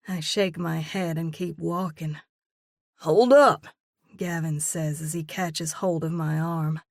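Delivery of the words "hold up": loud, higher call to stop her. Acted. Man stops her leaving.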